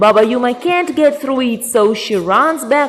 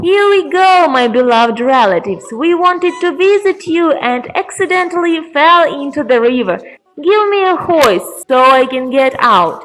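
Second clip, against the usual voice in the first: lightly acted witch, pitched up in places; Baba Yuma; 4 semitones higher than usual. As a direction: plead lightly as a witch passing herself off as kin. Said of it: "Baba Yuma says".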